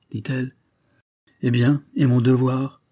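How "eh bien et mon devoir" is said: a soldier's indignant outburst; exclaiming. Acted. Brigadier answering the lady, a louder indignant cry. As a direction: cry out, a bit louder, about duty. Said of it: "s'écria le brigadier".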